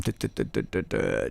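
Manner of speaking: soft, low string of duhs; idle duh-duh filler. Real, not acted. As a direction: murmur filler syllables while searching. Filler while searching the menu.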